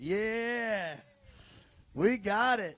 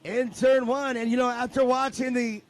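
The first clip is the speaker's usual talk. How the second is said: play-by-play; 4 semitones higher, 6 dB louder, slower than usual. Acted. Live race call.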